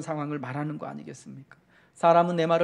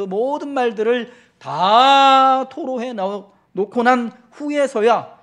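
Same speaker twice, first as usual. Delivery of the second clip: loud, high and drawn out; slow fervent pulpit cry; preaching climax; 6 semitones higher, 9 dB louder, slower than usual. Acted. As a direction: swell to a slow ringing peak on the pouring out. Preacher's climax on pouring out words.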